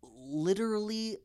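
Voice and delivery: low, slow, drawn-out pauses; slow and deliberate. Retold or imitated. Imitating the friend's slow, deliberate impression. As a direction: draw every word out. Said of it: "just, like, very slow, just deliberate".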